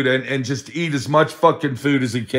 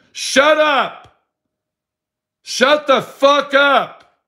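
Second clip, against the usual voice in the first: much higher mock yell of shut up; yelling at the bird; 11 semitones higher, much slower than usual. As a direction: imitate the friend snapping at his bird, pitched way up. Friend yelling at his bird.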